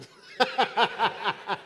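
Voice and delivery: risada alta e aberta do pregador. Real, not acted. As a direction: solte uma gargalhada forte. Pregador ri após ironia. (o pregador gargalha alto para a igreja)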